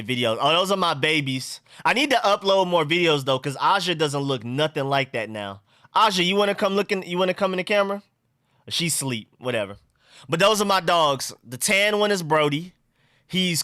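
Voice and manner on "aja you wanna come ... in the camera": higher coaxing call to a pet; calling the dog. Real, not acted. Streamer invites the dog on camera, higher coaxing call. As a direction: call your dog over, voice lifted.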